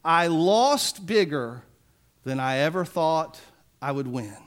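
put-on the mean old store owner admitting his loss, trailing off; defeated old man. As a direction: let it sink away in defeat. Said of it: "he says these words".

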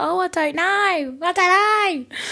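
high, drawn-out mock-coy squeal; flustered flirty singsong, hammed up; coy bashfulness.

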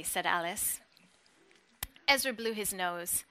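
steady, measured reading of a novel; story reading. Acted. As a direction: read the scene like an audiobook. Reads novel passage aloud.

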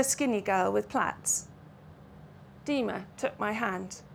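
an author reading her novel aloud, measured and clear; story narration. A narrator's reading. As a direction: tell it like a storyteller to a listening audience. Novelist reads from her book.

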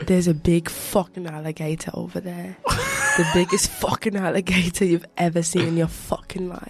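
put-on Australian croc-hunter accent, hyping it up; lightly hammed-up Australian accent. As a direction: do a playful Aussie wildlife-host accent. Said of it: "I can't do the accent".

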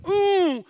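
very high, long scandalized ooh; imitated shocked "ooh". Preacher mimicking the congregation's reaction, high shocked ooh. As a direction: ooh like an offended audience. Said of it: "all of us here go".

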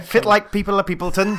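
hammed-up Scottish greeting; attempted Scottish accent. Co-host greeting listeners under pressure, attempted Scottish accent. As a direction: launch into a jokey Scottish accent. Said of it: "in the most Scottish accent that you can".

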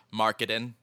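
"Marketing" said as mark-uh-din; dropped final G. Retold or imitated. She names her college course, "Marketing" without its G. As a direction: drop the G and soften the T in "Marketing". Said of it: "no G on the end of it".

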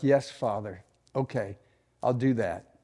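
soft, low obedient reply; humble submission. Acted. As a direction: answer God quietly, yielding to correction. Acts humble answer to God.

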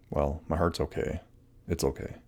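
soft, calm self-reassurance; soothing mantra. Shown as a demonstration. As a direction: gently talk yourself down. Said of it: "you wanna say".

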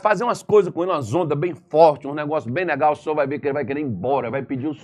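scheming devil. Acted. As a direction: plot like a gleeful schemer. Satan scheming against Carlos. (diabo tramando, em tom malicioso)

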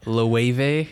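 LOEWE as lo-WAY-vay; three parts in LOEWE, lo-WAY-vay; pronunciation demo. Shown as a demonstration. Co-host offering a tricky brand, LOEWE as lo-WAY-vay. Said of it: "It looks like low".

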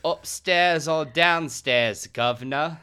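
loud, drawn-out dramatic reading; Jonathan Adams, hammed up. Actor answers his agent on the phone, hammed-up reading. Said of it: "John, you can be Jonathan Adams".

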